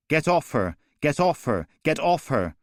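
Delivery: high, loud repeated yell; screaming at the attacker to stop; desperate shout. Acted. Young woman fighting the attacker.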